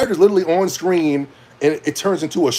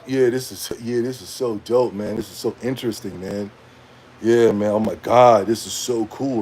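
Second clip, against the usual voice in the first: bored streamer; 5 semitones lower, 3 dB quieter than usual. Retold or imitated.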